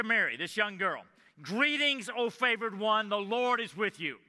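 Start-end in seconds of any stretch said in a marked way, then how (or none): 1.4-4.2 bright raised greeting, a herald's call; angel's greeting. Acted. Angel greeting the young girl Mary, raised and bright. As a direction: announce it like an angel.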